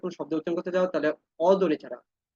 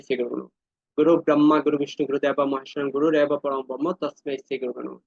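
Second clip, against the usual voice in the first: low, steady devotional recitation; mantra recitation; 4 semitones lower than usual. Real, not acted. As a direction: recite the guru prayer with reverence. Recites guru pranam mantra. (ভক্তিভরে মন্ত্রপাঠ)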